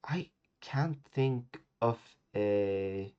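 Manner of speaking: slow whispered musing; whispering. Real, not acted. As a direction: whisper it while thinking. Thinking aloud, whispered.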